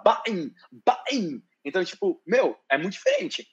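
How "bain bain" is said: put-on Birmingham accent. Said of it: "ele fala".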